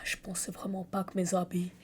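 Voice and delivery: apologetic Canadian French accent. Shown as a demonstration. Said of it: "Essaye l'accent canadien".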